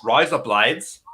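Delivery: "rise up lights" as Australian "razor blades"; put-on Australian "rise up lights", run together; Australian accent. Shown as a demonstration. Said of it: "razor blades in the Australian accent".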